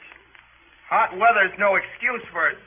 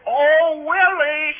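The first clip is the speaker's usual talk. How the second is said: higher-pitched mock holler; imitating her holler; 5 semitones higher, 4 dB louder, much slower than usual. Brother mimics little sister to mother, mock holler. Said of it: "She hollered".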